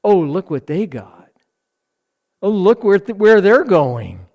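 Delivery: envious sighing. Retold or imitated. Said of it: "the fuel of the rebel sigh".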